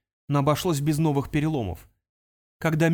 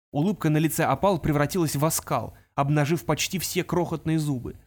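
usual speaking voice

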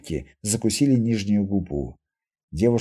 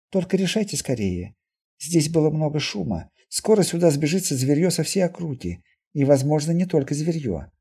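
put-on slightly higher girl's voice, restrained urgency; mutant girl, urging; 5 semitones higher than usual. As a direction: press them gently to decide. (девушка сдержанно торопит, голос повыше)

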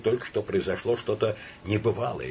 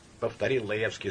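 plain reading voice

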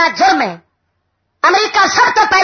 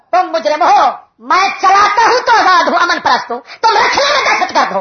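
mock accusation; 3 semitones higher than usual. Acts out America's double standard.

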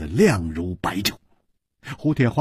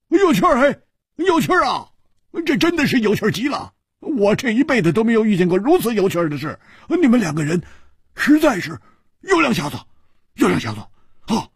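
laughing; 10 semitones higher, faster than usual. A narrator's reading. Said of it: "大笑着说".

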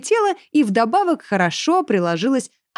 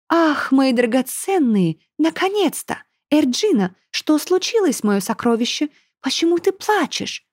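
cooing mother; 6 semitones higher than usual. A narrator's reading. Mother cooing at her crying daughter, gushing. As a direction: fuss over her darling.

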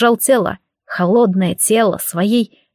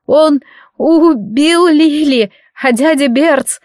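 high, slow, tearful wail; through tears; 5 semitones higher, 4 dB louder, much slower than usual. A narrator's reading. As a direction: fight back tears and fail. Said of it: "пытался сдержать слёзы".

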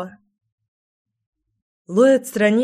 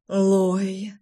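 moaning. A narrator's reading. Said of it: "застонал он".

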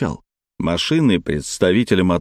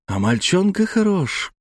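amused smile; 10 semitones higher, slower than usual. Acted. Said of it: "улыбнулась Жанна".

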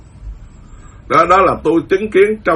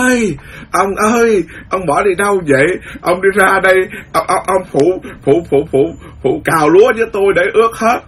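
calling out; 5 semitones higher than usual. Retold or imitated. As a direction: call the husband urgently to come help. Wife calling husband to help.

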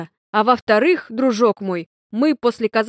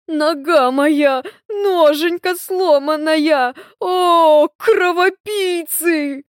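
high, slow groaning wail; moaning in pain; 6 semitones higher, 5 dB louder, much slower than usual. A narrator's reading. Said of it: "стонет Лёвка".

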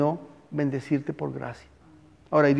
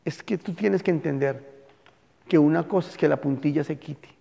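tender father; 2 semitones lower, 4 dB quieter than usual. Retold or imitated. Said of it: "El papá le dijo".

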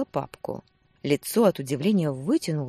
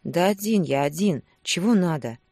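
lazy mumble; 4 dB louder than usual. Acted. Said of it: "Затем вяло промычал".

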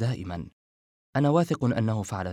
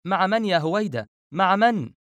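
high, alarmed questioning, growing louder; as if stung; 9 semitones higher, 4 dB louder than usual. Acted. Refaat getting no answer from Howaida, repeating as if stung. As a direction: demand it in alarm, pitch jumping up. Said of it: "فعاد يكرر كالملسوع".

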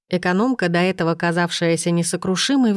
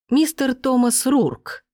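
booming name; 7 semitones higher, slower than usual. A narrator's reading. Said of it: "прогудел тот в ответ".

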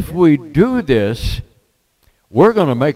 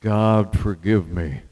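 hushed sincere prayer; 6 semitones lower, 5 dB quieter than usual. Real, not acted. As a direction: pray it quietly and truly. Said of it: "I mean that".

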